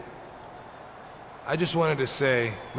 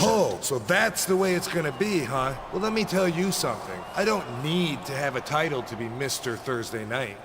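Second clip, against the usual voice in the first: touchy wrestler issuing a challenge; mildly riled comeback. Acted. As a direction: take offence and throw down a challenge. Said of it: "he's acting a little touchy".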